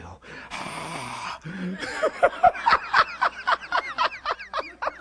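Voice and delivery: big hearty burst of laughter; long loud laugh. Real, not acted. Pastor laughing loudly at his reply to dad, hearty laugh. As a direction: throw your head back laughing.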